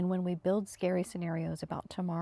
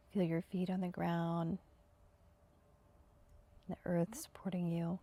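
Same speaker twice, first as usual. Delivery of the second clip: measured meditation guide with long pauses; unhurried, evenly paced meditation instruction; guided meditation. Acted. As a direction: settle listeners in, phrase by phrase.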